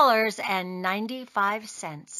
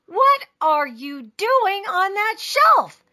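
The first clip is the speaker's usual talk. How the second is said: high, slow, astonished question; astonished father; 8 semitones higher, 4 dB louder, slower than usual. A narrator's reading. Father finds Taya on the shelf, astonished. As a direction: draw the question out in disbelief.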